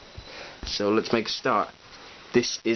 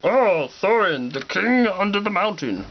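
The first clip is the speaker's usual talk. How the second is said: Goblin King voice; 8 semitones higher than usual. Retold or imitated. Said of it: "he's like".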